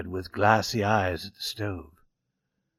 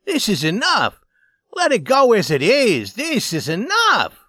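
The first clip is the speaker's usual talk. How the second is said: high, pleading, slowing to the end; begging; 9 semitones higher, 4 dB louder than usual. A narrator's reading. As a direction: beg them to let it go. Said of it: "he begged".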